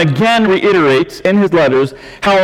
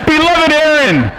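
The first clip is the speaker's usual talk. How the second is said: high, drawn-out jolly Santa greeting; 11 semitones higher than usual. Pretend. Pastor greeting Aaron in the office, Santa-style. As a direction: boom it like Father Christmas. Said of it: "sounded like Santa there".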